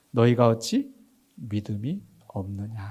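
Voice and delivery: low, soft, slow question; solemn scripture reading. A narrator's reading. Preacher quotes Jesus asking disciples, solemn and low. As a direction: read it quietly and gravely.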